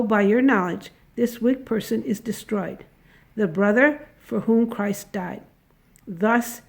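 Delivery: ordinary delivery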